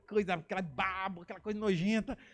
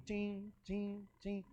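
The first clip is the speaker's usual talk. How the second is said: soft "tim" warning beeps; little imitated alarm dings; 7 dB quieter, much slower than usual. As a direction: voice a little danger light pinging. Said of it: "acendeu uma luz assim dentro de mim, vermelhinha, perigo".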